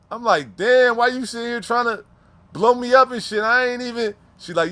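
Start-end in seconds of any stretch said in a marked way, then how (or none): 0.5-4.1 raised-pitch protest, a little whiny; higher protest. Retold or imitated. To the officer threatening to tell his wife, a higher pleading protest. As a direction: plead your innocence up high.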